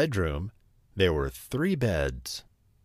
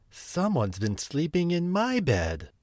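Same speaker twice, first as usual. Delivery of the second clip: higher-pitched mother bear voice; Mama Bear; 6 semitones higher than usual. A narrator's reading. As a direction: say it high, as a fussed mama bear. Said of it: "she said".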